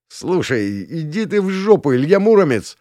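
high, brash swaggering jeer; cocky swagger. A narrator's reading. Arrogant prince jeers at the hero, high and brash. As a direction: puff up and mock him. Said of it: "распушил он свой хвост".

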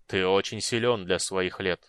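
slow, booming death knight; bitter, angry hollow voice; deep booming voice. Acted. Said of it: "Он говорил глубоким, гулким голосом".

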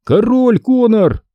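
КОРОЛЬ stretched slow and high; insisting correction. A narrator's reading. Conor corrects Emily, slowly stressing КОРОЛЬ. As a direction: lean hard on КОРОЛЬ, drawn out proudly. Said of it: "поправил я её".

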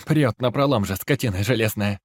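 loud furious cursing; angry shout. Acted. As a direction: curse the iron beast loudly. Old woman curses the machine.

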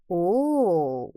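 drawn-out, understated surprise; mildly taken aback; surprised exclamation. A narrator's reading. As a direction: react with a long, puzzled sound. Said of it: "снова воскликнул папа".

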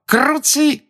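exclaiming. A narrator's reading. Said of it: "она воскликнула".

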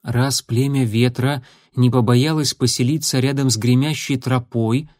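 slow, thoughtful delivery; drawing the words out, thinking; slowly. Acted. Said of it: "медленно проговорил Огнегриф".

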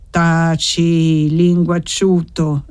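put-on a firm old woman's reproach, the second word slowed; stern command. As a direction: shut him up with authority. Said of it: "impose zia Paola". (zia Paola zittisce Gantine, tono imperioso)

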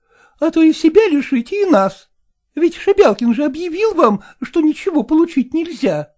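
put-on old singer urging her mistress to take the money; pleading old woman. A narrator's reading. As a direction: coax her in a high pitch.

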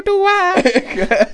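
high laughing radio DJ voice. Pretend. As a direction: croon it like a cheesy radio host. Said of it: "That's my radio voice".

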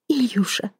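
breathless unvoiced whisper; whispered name. A narrator's reading. Woman bent over her gagged lover, whispering his name.

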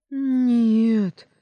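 high, loud desperate cry; desperate scream. A narrator's reading. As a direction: scream no in panic. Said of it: "отчаянно закричал Стефан".

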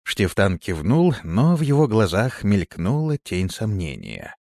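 ordinary delivery, nothing marked

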